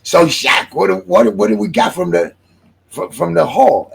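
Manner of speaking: high, loud, self-admittedly bad English accent; a hammed-up English revolutionary asking what they took. Retelling a movie scene to the audience, a bad English accent. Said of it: "I'm gonna do an English accent".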